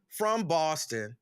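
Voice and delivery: "Boston" drawn out slowly, mimicking a commercial; commercial-style Boston. Host reading a check-in from Boston, imitating the commercials. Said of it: "That's how they say it in the stupid commercials".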